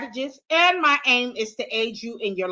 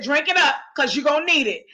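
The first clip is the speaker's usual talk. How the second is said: lightly imitating a firm, caring friend; mock-stern coaxing with a touch of playfulness; stern but loving; 2 semitones higher, faster than usual. Sister friend urging another to drink before hard news, lightly stern. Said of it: "she does it sternly".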